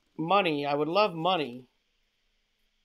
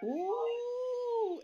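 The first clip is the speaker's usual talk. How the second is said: high flirty coo; 8 dB quieter than usual. Acted.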